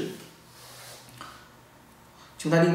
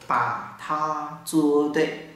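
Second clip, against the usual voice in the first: slow demo; much slower than usual. Shown as a demonstration. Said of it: "hãy làm đúng đi".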